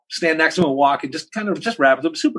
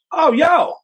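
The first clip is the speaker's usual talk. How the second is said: high-pitched startled recognition; acted-out amazed greeting; mock surprise; 4 dB louder than usual. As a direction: retell a sudden starstruck realization, pitched way up. Retelling recognizing a famous cellist.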